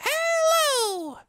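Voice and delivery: high shouted hello; big greeting. Real, not acted. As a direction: call out the greeting. Channel greeting.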